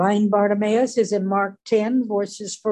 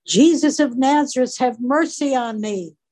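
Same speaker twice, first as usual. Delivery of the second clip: a somewhat louder, higher repeat of the beggar's plea; yells louder; 3 semitones higher than usual. Retold or imitated. Blind beggar yelling louder over the hushing crowd, pleading. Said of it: "He yells all the louder".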